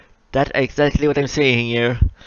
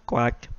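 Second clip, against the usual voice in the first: quiet duck quack; 3 semitones lower, 7 dB quieter than usual. Pretend. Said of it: "a silent duck here".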